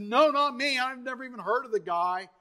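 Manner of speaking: quick brush-off, acting out a hint of cowardice; retold mealy-mouthed disowning; mealy-mouthed denier. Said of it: "to the mealy-mouthed guy".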